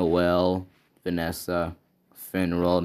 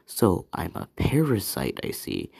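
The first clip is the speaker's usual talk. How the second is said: grinning devil. Acted. Devil grinning at being called parasite.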